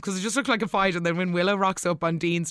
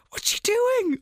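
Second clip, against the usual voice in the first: alarmed; slower than usual. Real, not acted. Reacting to creepy scene.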